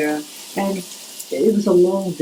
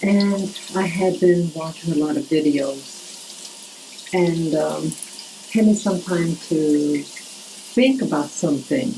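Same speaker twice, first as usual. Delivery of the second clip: talking in the shower; over running shower. Real, not acted. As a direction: voice under shower noise. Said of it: "I'm in the shower".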